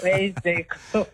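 slow, drawn-out, laughing through Where's Jacob; slow laughing repeat. Acted. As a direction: laugh while longingly repeating it.

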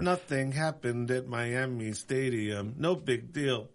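alien abduction voice. Pretend. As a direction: drone it like a spacey alien. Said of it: "that was your alien abduction voice".

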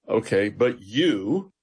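slow, leaning hard on "you"; emphatic you. Retold or imitated. Jesus turning the question on his disciples, emphatic "you". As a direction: press the word "you" as a pointed question. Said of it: "very emphatic in the original language".

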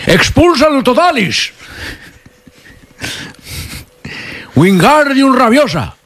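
high, drawn-out mock incantation; spell casting. Host casts parody spells on the guest, mock incantation. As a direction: chant the spell grandly, stretched and high.

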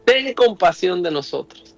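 retold cry for mercy. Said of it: "gritaban a Jesús".

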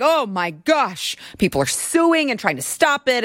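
half-hearted fake lament; mock crying media. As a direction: imitate media hand-wringing, stretching the start. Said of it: "well, crying about it".

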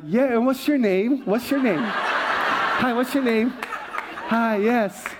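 high laughing mock modesty; a hint of playful vanity; playing it cool. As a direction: act the humble celebrity. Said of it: "I'm like".

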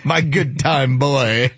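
lightly mimicked Laszlo accent, drawn out; imitated Laszlo accent. Host echoes a favorite TV line, light Laszlo accent. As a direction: echo Laszlo's accent slowly, savoring it. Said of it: "I love the accent".

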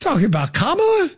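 mock-incredulous coach; exasperated questioning impersonation; Jim Mora. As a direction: echo a coach's disbelieving rant. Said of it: "a Jim Mora voice".

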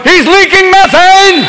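slow, high alarmed dog voice. Pretend. The dog warning the family, alarmed and high. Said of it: "even the dog's going".

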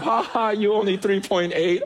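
a hint of a laughing schoolyard taunt; lightly mock the teasing kid; half-laughed imitation of a taunt; mocking classmate. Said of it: "I was the one they made fun of".

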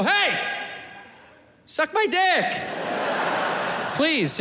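Hey, suck my dick pitched high and friendly; said nice. Shown as a demonstration. Comic showing the nice way to say it, high and friendly. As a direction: offer Hey, suck my dick like a kind invitation. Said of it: "We should say it nice".

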